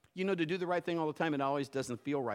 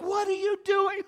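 high, louder mock wife's voice; Kim's alarmed question; 7 dB louder than usual. Pastor voicing his wife's alarm, high and louder. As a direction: imitate her sudden high question. Wife Kim reacting in retold story.

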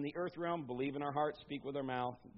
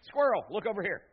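calling for attention; 4 dB louder than usual. Retold or imitated. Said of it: "He's saying".

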